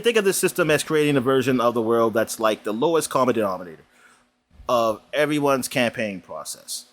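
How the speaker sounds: steady, measured read of the announcement; reading a news post. Acted. Host reads Halo co-op announcement to cohost, measured read. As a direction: read the studio's post out like a press release.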